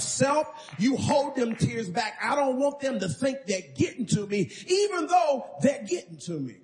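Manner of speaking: a hint of a man bracing himself against tears; urgent self-talk. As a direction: tell yourself to hold back the tears, building to a cry. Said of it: "I'm talking to myself".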